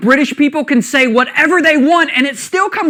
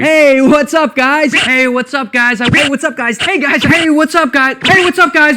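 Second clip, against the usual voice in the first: mocking intro catchphrase; 3 semitones higher than usual. Shown as a demonstration. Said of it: "summed 'em up for you".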